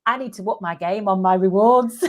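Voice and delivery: said through laughter; laughing. Real, not acted. Mocking her own candle reward next to bigger ones, laughing through it. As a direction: laugh at yourself as you say it.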